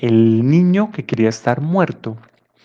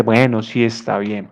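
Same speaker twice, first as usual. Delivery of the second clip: exasperated grandfather giving in; 3 semitones lower, 5 dB quieter than usual. Acted. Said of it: "un poco desesperado".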